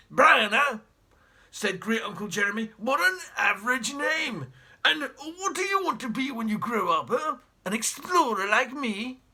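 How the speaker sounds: put-on haughty old explorer, barking at the family; pompous great uncle. Pompous great uncle sneering at the spongers in his house, loud and scornful. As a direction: look down your nose and bellow. Jeremy mocks Brian.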